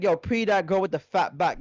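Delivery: London roadman accent; lightly put-on British roadman voice; British roadman slang. Shown as a demonstration. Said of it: "the way they'll say it".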